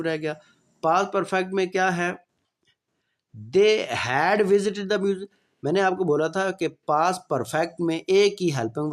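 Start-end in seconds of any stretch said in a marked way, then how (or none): 3.6-5.3 slow, clear dictation pace; slow classroom example sentence; slow example read. Shown as a demonstration. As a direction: spell it out slowly for students. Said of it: "teacher reading example sentence".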